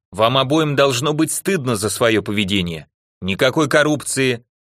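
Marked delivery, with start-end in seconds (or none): none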